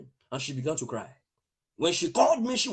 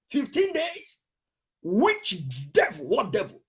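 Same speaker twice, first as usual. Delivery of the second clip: indignant disbelief; 2 semitones higher, slower than usual. Retold or imitated. Indignant retelling.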